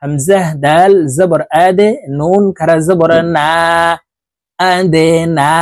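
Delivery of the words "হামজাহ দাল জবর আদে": আদে: the দাল pushed downward with a jolt; qalqalah bounce. Shown as a demonstration. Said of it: "ধাক্কা দিয়ে উচ্চারণ করতে হবে". (আদে শব্দে দাল-এ নিচের দিকে ধাক্কা দিয়ে কলকলা)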